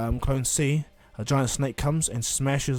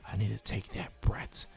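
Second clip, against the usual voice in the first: lightly voiced low villain; a hint of a sinister schemer, pitched low; scheming villain; 4 semitones lower, slower than usual. Orochimaru deciding to take the brat, low scheming villain.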